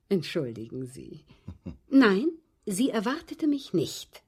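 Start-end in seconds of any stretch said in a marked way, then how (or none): 0.0-2.3 light amused chuckle into the answer; amused laugh. Acted. Mrs White laughs off remark.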